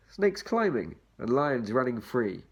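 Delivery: lilting read-aloud for little ones; reading to children. Acted. Reading picture book to children.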